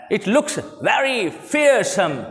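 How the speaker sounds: slow model reading. Shown as a demonstration. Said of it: "model sentence".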